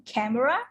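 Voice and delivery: camera stressed as CAM-era; stress on first syllable. Shown as a demonstration. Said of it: "the first syllable stress is on".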